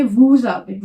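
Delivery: वू जाबे said voo-zabe, the s of vous sounded as z; French liaison demo. Shown as a demonstration. Teacher shows students the vous avez liaison, a z link. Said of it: "इसे pronounce करेंगे".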